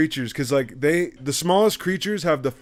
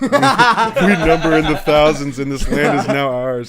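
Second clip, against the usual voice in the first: grand rat king voice; 5 dB louder than usual. Pretend. Reading Rat King's post grandly.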